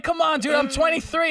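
high mock shout of protest; retold high-pitched indignant yell. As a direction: yell that you're old enough in a high, mock-outraged voice. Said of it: "I was like".

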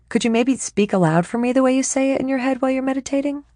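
pleading. Acted. Pleading with her roommate.

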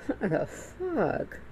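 drawn-out, slow what the fuck; slow, stunned what the fuck; slow disbelief. Real, not acted. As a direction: stretch it out in disbelief. Disbelief after laughing.

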